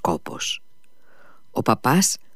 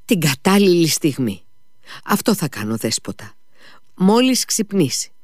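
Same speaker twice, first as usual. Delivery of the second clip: lightly voiced anxious man, pitched up; a hint of eager insistence, higher pitch; agitated Mitia, resolving; 5 semitones higher than usual. (ελαφρά ταραγμένος, αποφασισμένος Μήτια)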